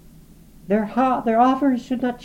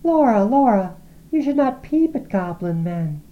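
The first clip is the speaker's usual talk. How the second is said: higher, louder frightened pleading; alarmed plea; 11 semitones higher, 5 dB louder than usual. A narrator's reading. Lizzie begging Laura not to peep, higher frightened plea. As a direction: plead with her sister in alarm. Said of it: "cried Lizzie".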